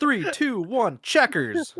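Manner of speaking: high, loud countdown shout; mock scream. Friends shouting game names for a cold intro, mock scream. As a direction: count down and yell the game's name. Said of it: "screaming the names of different games".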